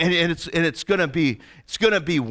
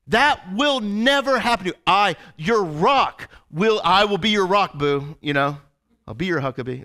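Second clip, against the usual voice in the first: Peter's bold promise; 2 semitones higher than usual. Retold or imitated. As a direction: swear loyalty with swagger. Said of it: "He's like".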